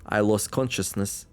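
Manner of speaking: steady, measured story reading; story narration. Acted. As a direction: read the tale to the listener, even and clear. Reads the game story aloud.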